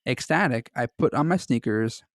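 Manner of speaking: steady storyteller read of a creepy tale; story narration. A narrator's reading. Friend reading the Mister Widemouth story aloud to the other, narrating.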